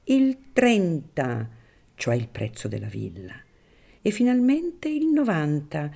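put-on a wary old priest keeping his distance; Don Cirillo, wary priest.

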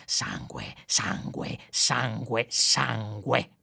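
low, repeated menace; a slow drumming threat; menacing. A narrator's reading. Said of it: "con aria minacciosa ripetendo". (sangue ripetuto con tono minaccioso)

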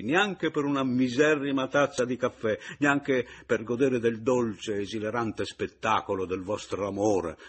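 sarcastic. Acted. Sarcastic blessing of the marriage.

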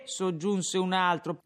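ordinary delivery

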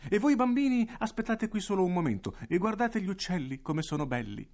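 molto più acuto e più forte, tono mellifluo; direttore zuccheroso. Acted. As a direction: finta gentilezza verso i bambini. Direttore si rivolge ai bambini. (il direttore ai bambini, voce acuta e melliflua)

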